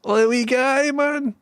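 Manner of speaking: high, loud gushing over the lamb; delighted coo. Real, not acted. Melting over a rescued lamb.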